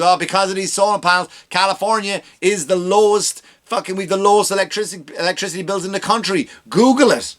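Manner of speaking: high smug politician voice; lightly voiced smug governor; mock Newsom boast. Newsom bragging at press conference, high smug voice. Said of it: "He goes out and he goes".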